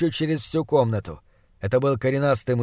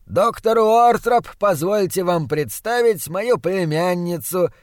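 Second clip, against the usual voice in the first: slow, higher-pitched formal introduction; courtly Austrian uncle; 4 semitones higher, slower than usual. Acted. Austrian uncle introduces his niece to the doctor, ceremoniously. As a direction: present her grandly and without haste.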